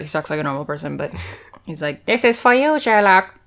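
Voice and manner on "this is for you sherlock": a light touch of a stiff butler; lightly put-on formal servant voice; mock formal voice. Driver presenting a box, lightly mock formal. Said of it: "He doesn't talk like that".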